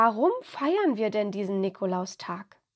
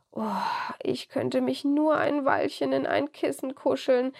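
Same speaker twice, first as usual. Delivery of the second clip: sleepy yawning voice, a bit higher; 4 semitones higher than usual. Acted. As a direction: yawn through the words. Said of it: "gähnte er".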